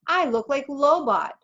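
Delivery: high, slow, indignant protest; angry. A narrator's reading. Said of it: "I said angrily".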